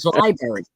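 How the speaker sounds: "library" said as "lie-berry"; dropped R. Retold or imitated. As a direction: repeat "library" as lie-berry, without its first R. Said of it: "dropping the R's".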